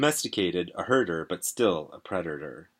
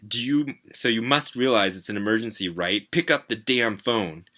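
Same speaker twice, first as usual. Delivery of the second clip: loud, higher, slowing into a demand; exasperated plea; 4 semitones higher, 5 dB louder than usual. Acted. Kid on ringing phone demanding his dad answer, loud exasperated. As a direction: lose patience, drag out the last command.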